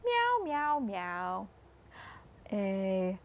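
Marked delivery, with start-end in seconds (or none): 0.1-1.5 high kitty meow that drops away; a mild meow for the little ones; cat meowing. Retold or imitated. Naming the animals with the kids, a cat meow. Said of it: "A cat saying".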